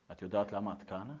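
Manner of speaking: low, soft probing question; hushed psychologist. Retold or imitated. Psychologist questions the mother, hushed and low. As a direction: ask quietly, very low.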